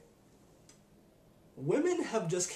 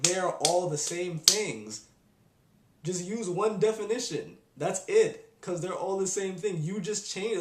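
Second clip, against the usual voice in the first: louder, slowed, emphatic; exasperated insistence; 3 semitones higher, 4 dB louder than usual. Retold or imitated. Arguing with someone about the definitions, louder exasperated. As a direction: hammer the point home.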